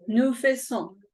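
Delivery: "Nous faisons" with a silent S and a nasal last syllable. Shown as a demonstration. Teacher models the nasal ending for the class, careful nasal vowel. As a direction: end "faisons" in the nose, no S. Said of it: "es nasal".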